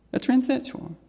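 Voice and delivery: mock yell from the boy; retold yell. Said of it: "he yelled out to me".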